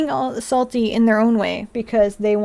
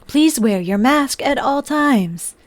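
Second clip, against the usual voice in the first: robotic announcement. Retold or imitated. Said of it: "announcements that came on".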